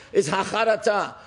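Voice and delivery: quoted Sephardic Hebrew pronunciation; Sephardic accent. Retold or imitated. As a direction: say "Hacharata" the Sephardic way, with a T. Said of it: "used to say it in a Sephardic accent".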